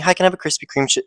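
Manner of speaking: Krispy Kreme with harsh, over-crisp R sounds; crispy R's. Retold or imitated. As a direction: imitate a coworker's overly crisp R in Krispy Kreme. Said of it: "something that you call crispy R's".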